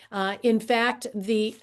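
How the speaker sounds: hoarse, strained voice; losing voice, pushing through hoarseness. Real, not acted. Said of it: "I'm losing my voice here".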